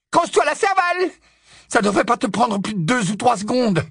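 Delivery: high, biting sarcastic shout; ironie redoutable. Acted. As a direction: jeer at him furiously. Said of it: "avec une ironie redoutable". (sarcasme crié, voix aiguë)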